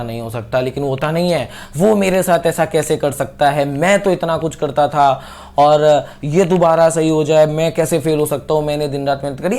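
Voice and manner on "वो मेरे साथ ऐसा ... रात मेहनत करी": mildly indignant acted complaint; mock aggrieved lament, slightly raised; upset protest. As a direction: play someone hurt and a little angry. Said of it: "गुस्सा होना, दुखी हो जाना".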